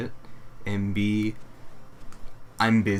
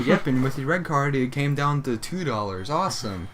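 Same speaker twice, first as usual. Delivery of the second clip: higher, upbeat customer-service tone; sing-song store clerk; perky cashier voice; 5 semitones higher than usual. Retold or imitated. Acting cashier and customer exchange.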